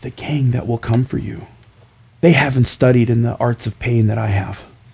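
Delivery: stage half-whisper with menace. A player leaning in close to speak to a man, half-whispering. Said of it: "I'm going to whisper".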